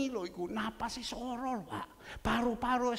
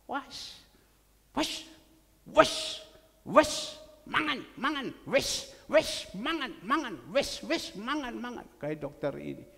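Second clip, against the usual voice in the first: insistent urging; 4 dB louder than usual. Retold or imitated.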